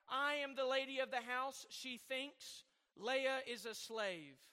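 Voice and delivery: deliberate, phrase-by-phrase recitation; dramatic quotation reading. A narrator's reading. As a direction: read it out as a pulpit quotation. Reads Luther paragraph aloud.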